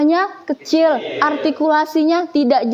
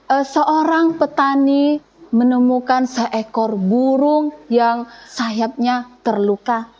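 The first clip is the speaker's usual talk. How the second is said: slow, deliberate story narration; slow storytelling narration; slower than usual. Shown as a demonstration. Teacher narrating a fable to show storytelling. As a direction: tell the fable slowly to the class. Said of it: "mengandalkan kata-kata atau tiruan suara".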